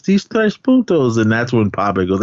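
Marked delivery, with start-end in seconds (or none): 0.0-1.2 high, slow imitated complaint; mock protest in a high voice; retold protest. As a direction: imitate Miklo, pitched way up and drawn out.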